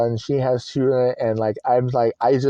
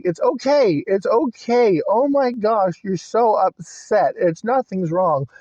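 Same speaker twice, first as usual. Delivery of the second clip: higher-pitched, soothing comfort; reassuring; 7 semitones higher than usual. Retold or imitated. Grandchild hugs upset grandmother, reassuring in a raised pitch. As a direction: gently talk someone down from being upset.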